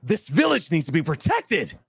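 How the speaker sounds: overdone anime hero line; over-the-top anime voice. Shown as a demonstration. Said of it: "Not anime enough," so I have to say".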